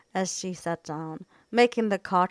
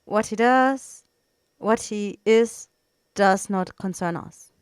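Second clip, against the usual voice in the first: neutral weight; 2 semitones higher, 7 dB louder than usual. Acted. The executor ending the debate, a lightly voiced heavy calm. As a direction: let each word land heavily. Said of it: "the words neutral".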